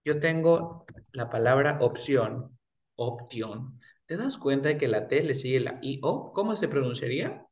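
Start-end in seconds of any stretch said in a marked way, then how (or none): 0.0-3.8 slow example. Shown as a demonstration. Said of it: "Por ejemplo".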